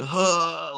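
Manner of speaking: mock "huh" of getting hit; pained involuntary noise. Player re-enacting being shot in the nuts, pained noise. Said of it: "can't even recreate the noise I made".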